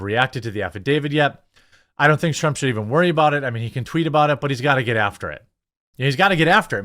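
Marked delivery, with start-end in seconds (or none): 6.0-6.8 louder and higher, pressing the point; punchy rally-style push; emphatic repeat. Real, not acted. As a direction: hammer it home a second time.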